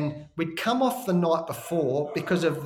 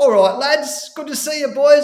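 very high, very loud, chummy, jokey, laughing voice; 10 semitones higher than usual. Describing an opposing cricketer greeting the team before the Ashes, retelling a joking, laughing greeting. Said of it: "he's sort of joking and laughing".

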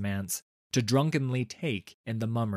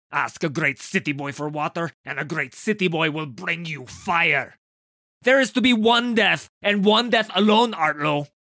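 theatrical, florid, loud, rising scolding temper tantrum; 7 semitones higher, 8 dB louder than usual. Reading a story aloud, Tarnold the chief dramatist scolds the actor Artlow: Tarnold losing his temper. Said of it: "As the chief dramatist of Aldeburgh's greatest and only theater, / the dramatist said. / The actors released their poses and turned to face their chief dramatist".

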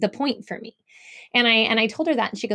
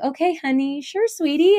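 put-on sweet, pitched-up placating mom voice; 6 semitones higher than usual. Acting out a mom answering a rude kid at the park: imitating being really nice. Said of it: "you're really nice 'cause you're a mom".

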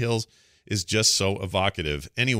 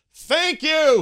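very loud, high all-caps shout; 8 dB louder than usual. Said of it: "he says in all caps".

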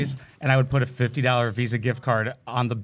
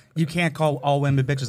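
usual speaking voice

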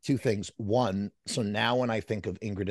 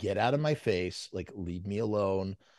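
plain

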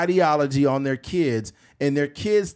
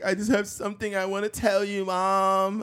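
mock crying, higher and quieter; 6 semitones higher, 4 dB quieter than usual. Retelling a coming-out video, imitating the son crying. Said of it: "He was just crying like".

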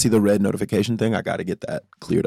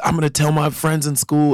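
mock excited yell, higher; 6 semitones higher than usual. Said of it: "very, like, all caps".

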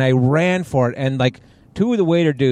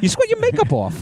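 put-on exasperated makeup artist voice, higher. Retelling a makeup woman reapplying makeup frantically: Sherry Cornhaber impression. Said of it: "that's a good im-, im-, impression of, uh, Sherry Cornhaber".

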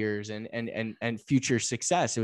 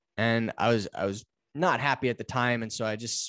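ordinary delivery

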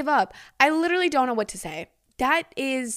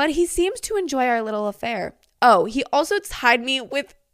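plain

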